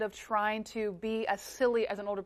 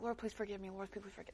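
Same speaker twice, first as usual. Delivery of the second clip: mumbled repeat prayer; 13 dB quieter than usual. Pretend.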